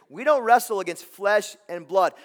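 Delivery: loud, punched declaration; preacher raising the verse to the crowd; forceful preaching. Acted. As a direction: hammer the verse home. Preacher restating key verse.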